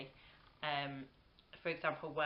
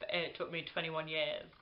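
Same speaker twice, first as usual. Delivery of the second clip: mock creepy. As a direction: draw it out, creepily deadpan as a joke. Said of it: "really creepily and was like".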